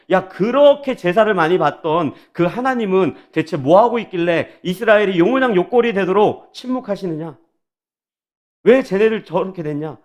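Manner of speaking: acted-out scornful questioning; mocking taunt. Enemies taunt the Jews about their silent God, mocking. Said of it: "그렇게 비아냥거리는 거예요".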